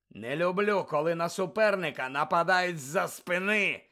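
loud growled anger; growling anger. Acted. Moody punishing the ferret, growling angrily. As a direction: snarl it at the ferret. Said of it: "загарчав Муді".

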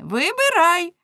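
high, loud group order; shouted demand. A narrator's reading. Girls ordering Lamme to choose, high shout. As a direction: call it out high and hard. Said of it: "гукнули вони".

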